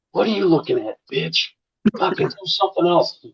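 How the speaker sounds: imitating a man who suddenly loses it; retold angry snap. Gym friend turning on a staring woman, retold angry snap. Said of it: "you just snaps and lose".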